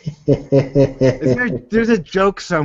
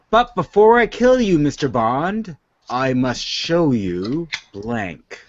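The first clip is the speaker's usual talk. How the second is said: evil villain voice; 2 semitones lower, slower than usual. Acted. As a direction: read it like a Bond villain. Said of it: "my evil voice".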